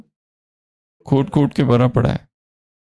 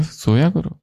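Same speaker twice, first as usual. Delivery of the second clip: higher pitch, rising at the end; puzzled echo question; 4 semitones higher than usual. Retold or imitated. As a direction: imitate a king taken aback by advice. King questions the astrologer's advice. (हैरानी भरा सवाल)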